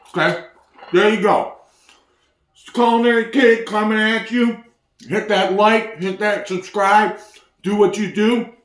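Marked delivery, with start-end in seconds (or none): 2.5-8.5 talking around a mouthful of food; mouth full. Real, not acted. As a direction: speak while still chewing. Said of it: "I talk with my mouth full".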